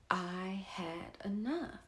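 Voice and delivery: breathy whisper of "I had enough". Real, not acted. Resolving to herself she's done, whispered. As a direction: drop to a slow, firm whisper. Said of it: "And I had enough".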